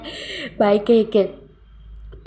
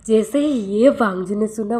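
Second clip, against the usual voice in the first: usual speaking voice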